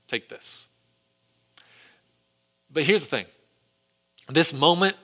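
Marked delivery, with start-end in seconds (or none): 0.1-0.7 hushed whisper, as if hiding it; whispered theft. Retold or imitated. Achan quietly pocketing the devoted things, whispered. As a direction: breathe it out so no one hears. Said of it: "he thinks God won't notice".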